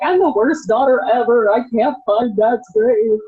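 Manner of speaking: a light echo of sobbing self-blame; retold tearful wail. Daughter to her mom on the phone, mildly tearful. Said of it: "bawling my eyes out".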